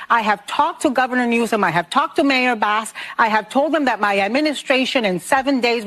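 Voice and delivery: presidential statement. Pretend. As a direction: read it like a careful press statement. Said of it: "putting out tweets saying".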